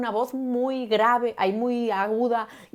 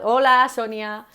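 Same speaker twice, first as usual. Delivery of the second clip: put-on high girlish hello; 3 semitones higher, 8 dB louder, slower than usual. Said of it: "noto que tengo una voz un poco aguda".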